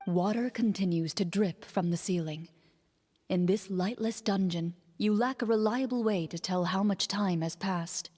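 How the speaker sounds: steady, even game master narration; scene narration. A narrator's reading. Game master describing the dark prison to players, measured narration. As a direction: paint the dungeon for the players, evenly.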